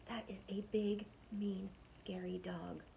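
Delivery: breathy unvoiced whisper. Burglar whispering to partner in the dark house, hushed whisper. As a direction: whisper it so nobody wakes. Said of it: "whispered one burglar".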